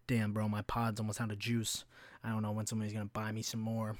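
a hint of a sulky sixteen-year-old; whiny teen. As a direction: mumble like a kid out of vape juice. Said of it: "sixteen-year-old kid being like".

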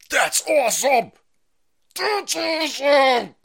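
high, loud hammed-up cheering, the second slow and shouted; mock cheer. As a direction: cheer like an overjoyed fan. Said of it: "the people at Field of Grits are like".

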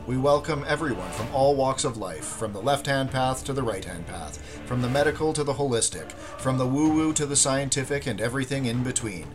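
smooth announcer read over music; podcast intro read. Acted. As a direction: read it like a show opener.

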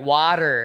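"water" with open "ah", no added R; corrected pronunciation. Retold or imitated. Dad correcting himself for his son, standard pronunciation. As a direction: say "water" as WAH-ter. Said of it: "And he's like".

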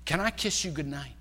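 lightly voiced bashful young man; shy suitor. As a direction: ask timidly, working up the courage. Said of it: "kinda gets all his courage up".

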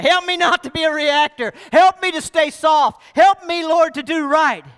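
calling out to the Lord for help; fervent prayer. Retold or imitated. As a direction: cry out to God, urgent. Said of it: "I was praying".

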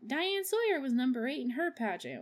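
bright chipper Amber. Retold or imitated. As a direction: spin it brightly. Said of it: "Amber's like".

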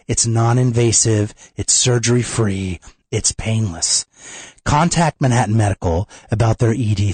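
upbeat radio ad read. Acted. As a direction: sell it like a radio spot. Host reads sponsor ad.

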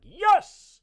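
"Yes!" yelled very high and loud; a hammed-up drunken whoop of yes. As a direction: bellow it like a cheerfully wasted party guest. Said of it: "And I'm just like".

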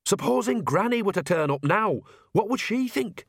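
high-pitched fretting; mildly scandalised old woman; alarmed worry. Acted. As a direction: fret aloud, pitch climbing to the end. Nanny alarmed at Granny's possible arrival.

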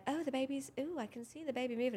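softly cooing, a touch high; cooing colleague. Retold or imitated. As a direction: lightly mimic a fascinated colleague. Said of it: "your colleagues are just like".

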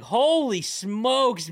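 new dad reeling from the diaper blowout; holy smokes. Retold or imitated. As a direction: stretch it out in horrified awe.

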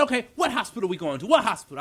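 mildly exasperated retold questioning; impatient partner. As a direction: imitate a partner pressing for an answer. Impatient partner questioning him, acted.

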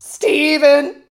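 high, loud hammed-up wail of the name; mock wail. Widow screaming her dead husband's name, hammed-up wail. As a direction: throw the name up at the sky in mock grief.

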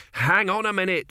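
worried builder calls his brother back; urgent brother. Acted. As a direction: stop him going. 2B stops brother.

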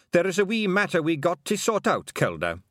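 high, hesitant Scottish pixie; a worried wee chieftain; worried Scots pixie. A narrator's reading. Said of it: "he was worried".

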